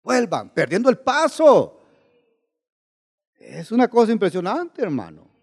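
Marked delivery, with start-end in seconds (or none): 0.0-1.8 high, slow imitated call; drawn-out retold cry to stragglers; calling from afar. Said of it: "él de lejos le gritaba".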